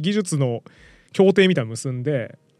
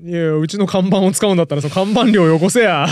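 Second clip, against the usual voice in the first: yakuza voice; 3 dB louder than usual. Pretend. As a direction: growl it like a mob boss. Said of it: "ヤクザやん".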